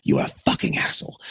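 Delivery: fast, rough unpitched put-on insult; imitated yelling Belgian. Angry local man insists to the touring musician, imitated insult. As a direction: repeat it low and rasped in his voice. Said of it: "he was just like".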